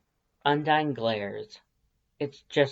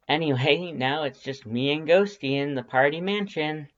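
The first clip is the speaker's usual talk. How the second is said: forced cheer, a bit louder and higher; false enthusiasm; 4 semitones higher, 3 dB louder than usual. Acted. The narrator brushing off pity with fake cheer. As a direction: put on a bright front you don't feel. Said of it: "you say with false enthusiasm".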